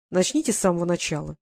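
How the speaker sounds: calm, steady request. Acted. The lord calmly asks the tearful girl to start over, calm. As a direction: settle her down gently. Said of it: "спокойно произнёс".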